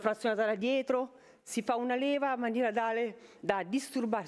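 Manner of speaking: breathless after a workout; catching her breath between words. Real, not acted. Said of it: "scusate il fiatone".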